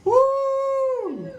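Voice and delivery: very high, sustained whoop; high victory hoot; triumphant whoop. Acted. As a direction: let out a long high "woo". Triumph after the tongue twister.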